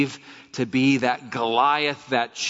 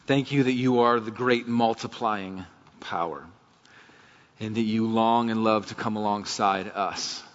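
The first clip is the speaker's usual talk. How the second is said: prayer; 2 semitones lower than usual. Real, not acted. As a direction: pray earnestly and unhurriedly for the congregation. Leads a closing prayer.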